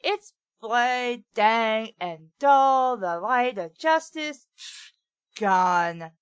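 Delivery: put-on valley girl. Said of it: "a Valley Girl accent".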